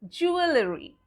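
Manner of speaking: JEWELRY in full syllables, joo-uh-luh-ree; spelling pronunciation. Shown as a demonstration. Teacher shows the mistaken way, JEWELRY as joo-uh-luh-ree. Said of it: "if we go by the words".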